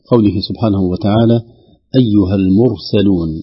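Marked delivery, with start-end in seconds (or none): 2.0-3.3 المرسلون with the r full and thick; heavy r in المرسلون. Shown as a demonstration. Teacher reciting to students, المرسلون with heavy r. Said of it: "يراعى تفخيم الراء الساكنة".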